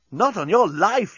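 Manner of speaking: high, drawn-out defiant cry; yelled retort. A narrator's reading. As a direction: yell back a stretched-out refusal. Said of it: "yelled Nettie".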